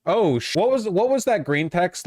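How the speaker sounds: thrilled, voice up; excited. Real, not acted.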